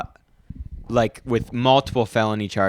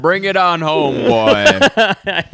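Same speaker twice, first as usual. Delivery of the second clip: hammed-up calling; 5 semitones higher, 4 dB louder, slower than usual. Mock calling a character.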